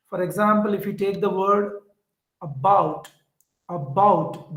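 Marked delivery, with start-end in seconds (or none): 2.4-4.5 "about" with the bout stressed; stress on second syllable. Shown as a demonstration. Teacher showing students the stressed syllable, stress on "bout" in "about". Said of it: "the bout is stressed".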